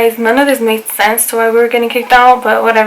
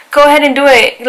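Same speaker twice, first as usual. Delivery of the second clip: retold defiant dare; 4 semitones higher, 3 dB louder than usual. Retold defiance of pepper spray threat.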